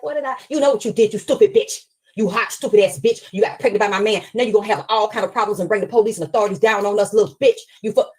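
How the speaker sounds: a hint of a furious aunt tearing into her; angry twin. Jealous twin berating the pregnant girl, loud and angry. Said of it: "She was like".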